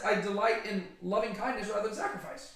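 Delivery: a mild snarky lilt, rising like an obvious point; snarky quoting. Retold or imitated. Jesus quoting scripture at the Pharisees, lightly snarky. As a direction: toss the verse back at them, lightly mocking. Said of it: "Jesus is actually pretty snarky".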